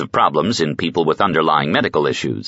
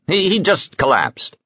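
a higher, faltering fake excuse; stammered excuse; 12 semitones higher than usual. The tall man stammers a cover story to Roic, higher. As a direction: stumble over the lie.

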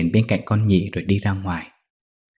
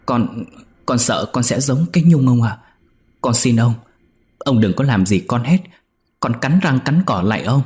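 fearful begging; 3 semitones higher, 4 dB louder than usual. Acted. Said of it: "Con Nhị nói".

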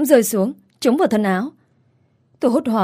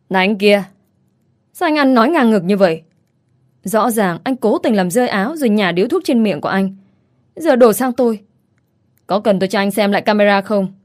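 raised, sharp scolding voice; yelling back. Acted. Shop girl yelling back at the rude customer, raised. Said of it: "quát lên".

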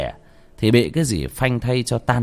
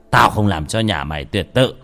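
angry threat; 7 dB louder than usual. Acted. Man curses narrator, leaves angry.

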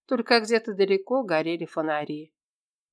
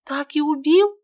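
high, louder, disbelieving rise; girl asking her friend, stunned; shocked question; 8 semitones higher, 6 dB louder than usual. Acted. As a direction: ask in wide-eyed disbelief.

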